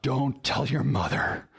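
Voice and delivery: a hint of a stern conspiratorial parent; stern look, secret aside; mock stern. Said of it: "you look very sternly and say".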